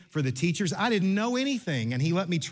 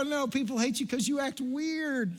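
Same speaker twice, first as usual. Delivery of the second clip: slow, soft, laughing through it; laughing tease; 9 semitones higher, 4 dB quieter than usual. Retold or imitated. Youth pastor telling Billy he acts weird, laughing softly. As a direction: chuckle out the blunt truth.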